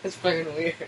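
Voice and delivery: squealing and laughing while tickled; giggly protests under tickling; being tickled. Real, not acted. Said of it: "stop tickling me".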